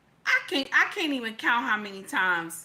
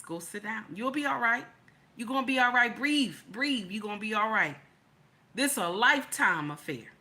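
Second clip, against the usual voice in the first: calmly. Retold or imitated. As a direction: settle her down like a steady husband. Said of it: "look at me so calmly and say".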